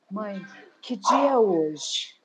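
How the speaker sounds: low, slow, teasing daughter's voice; sly daughter. Retold or imitated. Daughter slowly asking her mother the date, low and teasing. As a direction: drag it out slyly like a prankster. Daughter reveals April fools prank.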